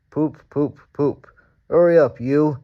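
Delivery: loud, high, impatient engine hooting; crossly. A narrator's reading. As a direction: bark it at the little engine. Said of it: "said Gordon crossly".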